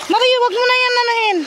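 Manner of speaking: calling out loudly.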